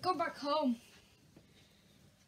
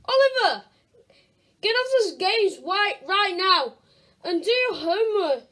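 scolding parent; 3 dB louder than usual. Acted. Mum scolding son.

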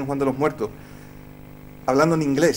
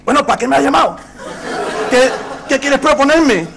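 mock shouting over noise; 10 semitones higher, 8 dB louder than usual. The speaker over crying baby.

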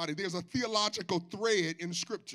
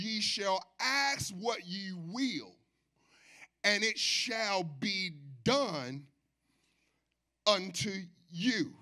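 solemn scripture reading; much slower than usual. Real, not acted. Preacher reads verse seven slowly and reverently to the church. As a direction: read each word slowly and reverently.

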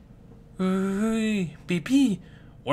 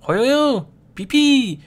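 high, loud playful cry; high wrestling cry; 11 semitones higher, 8 dB louder, much slower than usual. Acted. A wrestler crying out mid-match, high and loud.

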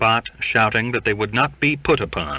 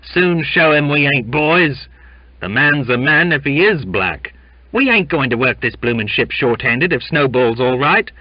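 loud, raised rabble-rousing; agitating sailor; 6 semitones higher, 5 dB louder than usual. A narrator's reading. Sailors urging their mates to strike, defiant and loud. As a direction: rouse the men like a mutineer.

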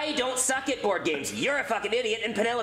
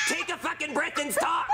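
exasperated; 4 semitones higher than usual. Acted. Frustrated teammate yelling.

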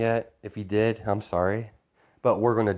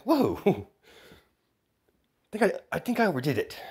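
much higher, laughing surprise; surprised whoa; 9 semitones higher, slower than usual. Acted. Kid villain reacting to his oversized explosion, laughing. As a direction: gasp at your own blast, amused.

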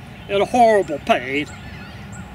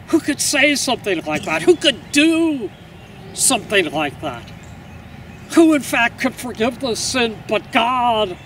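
higher-pitched, astonished questioning; incredulous amazement; 4 semitones higher than usual. Acted. An onlooker astonished that Jesus forgives those who crucified him, incredulous. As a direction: question it in growing disbelief.

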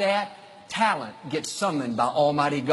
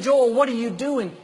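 roommate's voice; 7 semitones higher, 3 dB louder than usual. Retold or imitated. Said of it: "He said".

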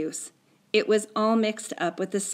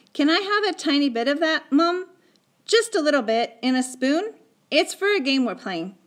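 put-on higher, louder boy's pleading; coaxing child; 7 semitones higher, 4 dB louder than usual. Boy asking Mum for a bit of stew, coaxing. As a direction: ask Mum sweetly for a small favour. Boy coaxes mother for food.

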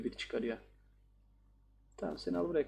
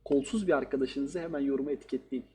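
mock outro plug. Gamer retries the joke plug to viewers, mock promo. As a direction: sell it like a channel shout-out. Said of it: "öyle de olmadı lan".

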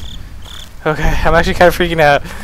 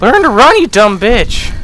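frustrated yell; 5 semitones higher, slower than usual. Real, not acted. Player yelling at own slow character, frustrated. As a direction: scold the runner sharply.

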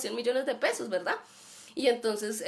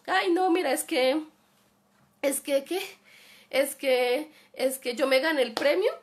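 mock excited scammer; 3 semitones higher, 4 dB louder than usual. Imagined scammer pitch, mocked.

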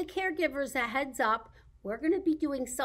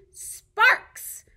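big high drawn-out reveal of the name; grand announcement; 9 semitones higher, 10 dB louder than usual. Acted. Librarian introducing her dragon puppet with a big fanfare. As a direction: present the puppet like a showman.

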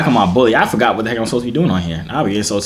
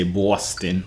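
put-on "Boston" drawn out slowly in a local Boston accent; slow, exaggerated Boston accent; imitated Boston accent; 5 semitones lower, 5 dB quieter than usual. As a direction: mimic a true Boston native saying "Boston". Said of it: "like you really from Boston".

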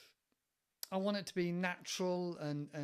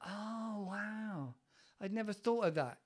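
mildly amazed listener; 3 semitones higher than usual. Retold or imitated. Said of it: "he doesn't judge. He's like".

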